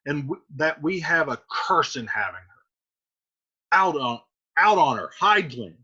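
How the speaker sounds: disown the daughter coldly; furious father. Acted. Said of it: "And Capulet says".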